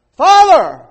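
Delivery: a loud, high anguished call to the father; desperate cry out. Retold or imitated. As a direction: cry out from the pit, begging. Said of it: "crying out".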